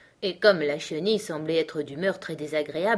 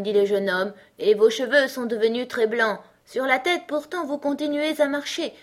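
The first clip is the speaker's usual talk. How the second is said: raised, measured verse recitation; reciting; 7 semitones higher, 5 dB louder than usual. A narrator's reading. Alice saying her poem to the caterpillar, reciting. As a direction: keep reciting like a pupil. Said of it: "joignit les mains et commença".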